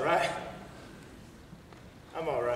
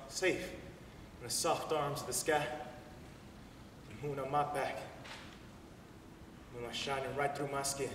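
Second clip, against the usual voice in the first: dreamy. Acted. Dreamy flight monologue.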